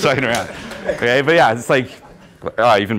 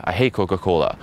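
understated falling dismissal; acted matter-of-fact put-down; deadpan contrarian reply. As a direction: contradict her coolly. His contrarian reply in example.

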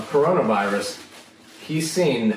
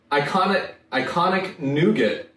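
slow tongue twister; 3 semitones higher than usual. Shown as a demonstration. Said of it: "That's a tongue twister and a half".

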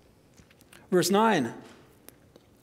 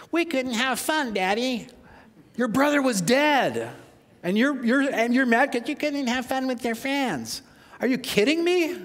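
higher, incredulous father scolding a sulking son; father rebuking his older son in disbelief, higher and exasperated; 6 semitones higher than usual. Acted. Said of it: "the voice helps".

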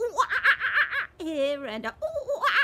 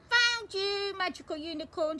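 higher, louder rushed "found you"; excited find; 8 semitones higher, 5 dB louder than usual. Acted. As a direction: blurt it out in a thrilled rush. Peppa finds a shiny thing.

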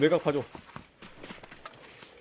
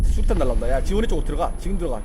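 urgent shouting; 7 dB louder than usual. Real, not acted. Urgent orders under grenade fire.

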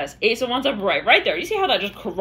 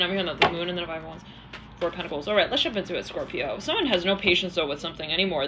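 ordinary talk

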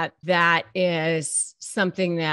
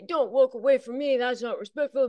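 higher and louder, a mild mock protest; narcissist protesting; 5 semitones higher, 4 dB louder than usual. Narcissist objecting as you walk away, mock protest. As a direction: imitate the narcissist calling after you. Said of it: "if they say".

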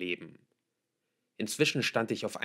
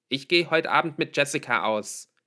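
louder, higher call over the shoulder; 6 semitones higher, 8 dB louder than usual. A narrator's reading. Daughter calls back to father over her shoulder, calling out. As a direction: toss it back loudly while leaving. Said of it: "rief ich über die Schulter".

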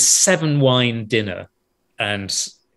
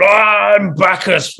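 slow, loud and higher roar; roaring Bacchus; 6 semitones higher, 6 dB louder, much slower than usual. Retold or imitated. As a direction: bellow it like a drunken god leaping into a tackle. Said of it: "this amazing roar".

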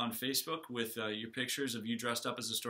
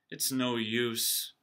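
slow, sighing defeat; much slower than usual. Acted. Little dragon giving up, sighing slowly. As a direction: let it out on a tired sigh. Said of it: "Crispin sighed".

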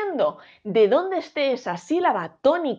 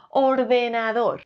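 slow pronunciation; slower than usual. Shown as a demonstration. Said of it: "¿Cómo pronunciamos esta palabra?".

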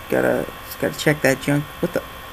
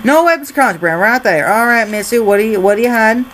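put-on Texas officer, higher pitched; Texas accent; 4 semitones higher, 3 dB louder, faster than usual. Border officer grilling a traveller about contraband, mock Texas accent. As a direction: question her in a hammy Texas accent. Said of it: "Gonna stop doing this annoying Texas accent".

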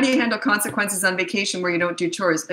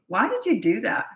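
high, incredulous boss grilling an employee; belittling boss; 7 semitones higher than usual. Acted. Boss berating an employee over a mistake, belittling and high. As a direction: sneer down at someone who slipped up. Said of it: "you're belittling them".

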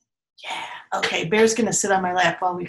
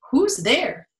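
mouse cries; 5 semitones higher, 3 dB louder than usual. Acted. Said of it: "Mouse cries".

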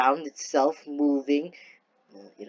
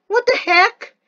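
exasperated shout; 8 dB louder than usual. Real, not acted. Exasperated at glitching game.

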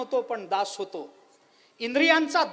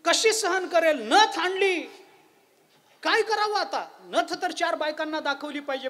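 high excited voice, pitched up and louder; eager restless wife; 5 semitones higher, 4 dB louder than usual. Acted. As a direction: burst with eagerness to show off. Woman restless to show off nose ring.

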